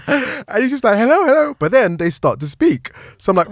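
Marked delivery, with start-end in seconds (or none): 1.0-1.5 mimicked high call to rouse someone. Man trying to rouse an unresponsive person, calling out. Imitates man still rousing casualty.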